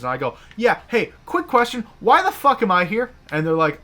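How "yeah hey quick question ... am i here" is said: loud, high, sarcastic retort to the boss; hammed-up furious quick question; mock angry question. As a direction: fire it back at the boss with retold fury. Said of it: "I'm fuming".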